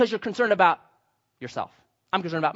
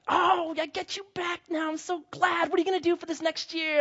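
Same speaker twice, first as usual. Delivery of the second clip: put-on girlfriend voice; 12 semitones higher than usual. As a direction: play the overjoyed girlfriend. Voicing girlfriend in story.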